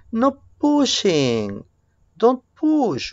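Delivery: high, drawn-out telling-off; play-scold a child in a high voice; mock scolding. Teacher telling a boy not to push, mock scolding.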